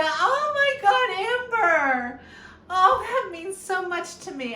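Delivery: overwhelmed, breaking into tears; moved to tears by a friend's note; crying. Real, not acted. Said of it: "she's got me crying".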